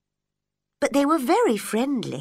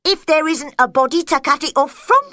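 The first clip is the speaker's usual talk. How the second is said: executioner's voice; 5 semitones higher, 6 dB louder, faster than usual. A narrator's reading. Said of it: "said the executioner".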